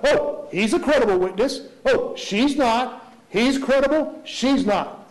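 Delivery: sing-song mock of a lawyer vouching for witnesses; mild mocking lawyer voice; mocking defense counsel. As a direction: lightly parody the back-and-forth verdicts. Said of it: "defense counsel commenting about".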